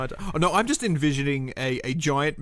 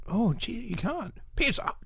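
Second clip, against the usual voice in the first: put-on high old-timey English accent, softer; 8 semitones higher, 5 dB quieter than usual. Shown as a demonstration. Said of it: "in that accent".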